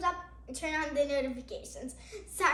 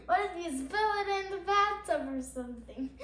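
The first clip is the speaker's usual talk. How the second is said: laughing while talking; 2 semitones higher than usual. Real, not acted. Laughs at her own joke.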